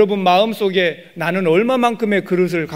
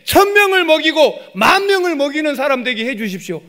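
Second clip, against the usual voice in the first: higher, louder confident prayer; bold prayer; 6 semitones higher, 4 dB louder than usual. Shown as a demonstration. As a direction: ask God big and earnest. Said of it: "이렇게 기도하는 사람이".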